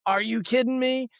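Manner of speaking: imitating a wife's exasperation, pitched high; high, incredulous retort, stopping short of a yell; restrained exasperation. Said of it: "she didn't flip out, but she was like".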